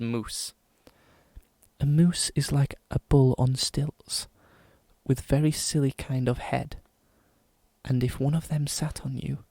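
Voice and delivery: measured posh English poem reading; posh English accent. Pretend. Podcaster reading a silly moose poem, posh English accent. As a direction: recite solemnly in a put-on posh English accent. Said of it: "as posh of an English accent as I can".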